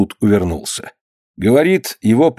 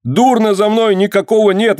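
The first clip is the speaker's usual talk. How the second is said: wailing; 9 semitones higher than usual. Acted. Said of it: "вопит".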